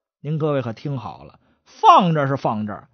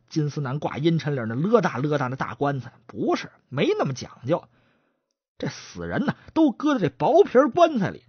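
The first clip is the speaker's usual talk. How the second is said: brisk, dismissive partner, a hint of contempt; lightly voiced chatterbox; 2 semitones higher than usual. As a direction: chatterbox cuts off the stutterer, dismissive.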